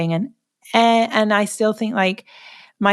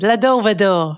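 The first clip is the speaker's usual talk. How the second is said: Yiddish-accented, a little louder; 3 dB louder than usual. Shown as a demonstration. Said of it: "You say it in a Yiddish accent".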